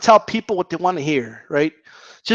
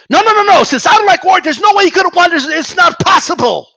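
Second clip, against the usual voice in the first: mock indignant denial; 10 semitones higher than usual. Vlogger mimics Ward haters after the win, mock indignant denial. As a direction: imitate a fan refusing to accept it.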